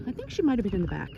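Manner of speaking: out of breath, breathing heavily. Real, not acted. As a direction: talk while short of breath. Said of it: "I'm probably out of breath and breathing really heavy".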